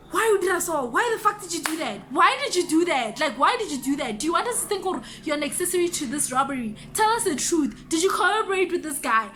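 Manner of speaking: retold irritated interrogation, insistent; irritated cop. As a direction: fire questions like an exasperated officer. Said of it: "the cop was so irritated with me".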